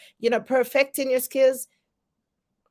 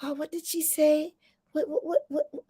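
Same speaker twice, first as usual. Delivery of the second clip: higher, softer mock confusion; baffled listener; 4 semitones higher, 5 dB quieter than usual. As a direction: imitate a lost listener, stammering on "what". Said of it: "they'd be like".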